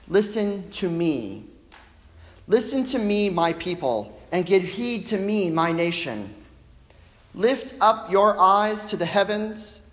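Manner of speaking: slow, lifted call to a whole nation; solemn oracle with long pauses; prophetic scripture proclamation. Acted. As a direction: declaim it as God's summons, phrase by phrase. Voices God's words from scripture.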